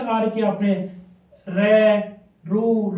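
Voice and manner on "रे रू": रे, रू said clearly as separate syllables, रे loud; sound demo. Shown as a demonstration. Teacher spells out रे, रू for the students, as a clear sound demo. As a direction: spell out रे then रू slowly, one by one. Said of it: "इस type की pronunciation बताई थी".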